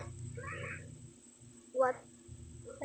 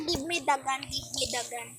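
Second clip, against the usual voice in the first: softer, calmer request; quiet retake; 3 semitones lower, 7 dB quieter than usual. Shown as a demonstration. Gamer repeating the request to the sheriff, quieter. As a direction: say it again quietly. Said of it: "Sabihin ko nga".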